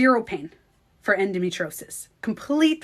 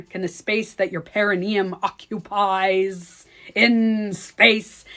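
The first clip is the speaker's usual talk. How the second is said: lightly droned meditation instruction; Joe Dispenza; slower than usual. Retold or imitated. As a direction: intone it with drawn-out endings. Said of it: "I swear, these are his meditations".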